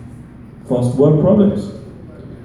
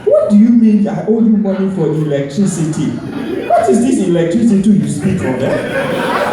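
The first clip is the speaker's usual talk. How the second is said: a hint of a Nigerian accent, playing dumb; mock-innocent Nigerian-accented bill dodger; 3 semitones higher than usual. To the bill collector, feigning ignorance in a Nigerian accent. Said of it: "I switch the voice up".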